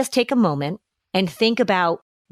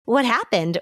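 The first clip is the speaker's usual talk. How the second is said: inviting concern; 4 semitones higher, slower than usual. Acted. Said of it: "You're inviting them into a conversation".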